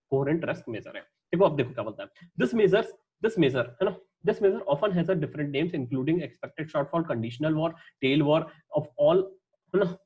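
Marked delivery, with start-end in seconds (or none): 2.4-3.7 very slow, deliberate reading of the text; slow dictation; slow reading aloud. Shown as a demonstration. Reading textbook slowly. 4.3-9.2 very slow, deliberate reading of the text; slow dictation; slow reading aloud. Shown as a demonstration. Reading textbook slowly.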